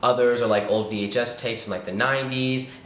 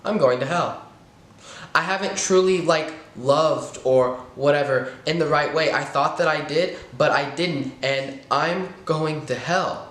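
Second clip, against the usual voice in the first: voicing the dread of damnation in the retold thought; panicked thought; 5 semitones higher than usual. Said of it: "And then I think".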